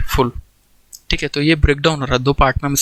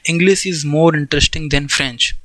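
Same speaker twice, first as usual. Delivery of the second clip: 1 slow dictation; much slower than usual. Shown as a demonstration. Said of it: "For example".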